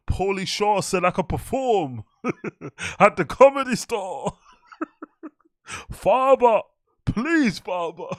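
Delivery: high whiny plea through laughter; cracking up mid mock-beg; laughing big boy voice. Mocking a comedian begging his father, laughing high. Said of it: "he puts his big boy voice on".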